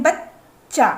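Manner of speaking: बच्चा with a long stop before चा; half consonant shown. Shown as a demonstration. Teacher showing the middle letter can't be fully said, बच्चा split at च. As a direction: catch the middle च in बच्चा, then release चा. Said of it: "जो बीच वाला चा है वो हम पूरी तरीके से".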